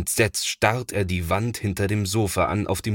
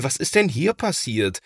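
dismayed call; 6 semitones higher than usual. A narrator's reading. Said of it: "ruft da sein Bruder Thomas".

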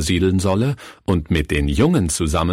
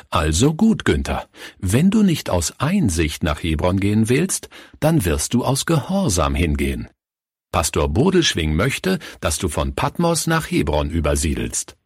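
stern. Acted. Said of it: "Stimme wurde hart und streng".

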